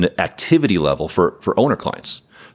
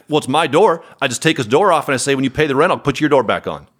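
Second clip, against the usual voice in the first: higher, lightly imitated Southern accent; southern drawl; 5 semitones higher than usual. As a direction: do a mock Texan landlord in a Southern drawl. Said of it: "he said in a southern drawl".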